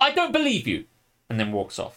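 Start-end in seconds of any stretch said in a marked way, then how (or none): 0.0-0.8 mock cross, angry voice, very high-pitched. Retelling how a woman reacted to an apology about orders: retold angry tone. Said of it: "in an angry tone".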